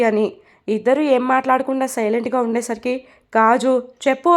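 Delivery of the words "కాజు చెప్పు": mock shout. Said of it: "అని అరుస్తుంది".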